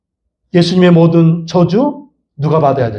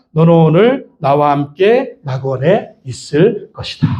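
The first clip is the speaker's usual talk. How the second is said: measured, lower-pitched Bible reading; scripture reading; 3 semitones lower than usual. A narrator's reading. Pastor reading the crucifixion passage to the congregation, measured scripture reading. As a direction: read the verses out deliberately to a congregation.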